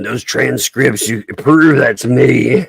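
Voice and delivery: slow, loud, huffy quote; mock indignant. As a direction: play the outraged accused, drawn out. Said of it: "having a little fit".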